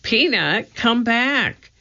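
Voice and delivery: high-pitched call after a runaway pet. A narrator's reading. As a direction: call it back urgently. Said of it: "Annie called".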